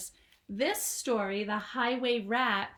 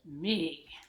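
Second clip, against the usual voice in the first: rat voice; 7 semitones lower than usual. Acted. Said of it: "but he ordered".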